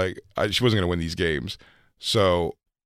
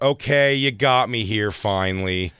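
mock relieved girl; 3 semitones higher, 4 dB louder, slower than usual. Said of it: "they have to be like".

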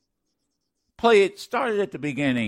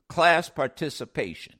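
1 laughing. Real, not acted. Laughing at own joke.

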